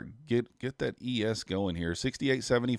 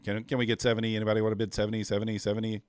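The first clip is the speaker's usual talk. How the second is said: auctioneer; much faster than usual. Pretend. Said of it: "I feel like an auctioneer".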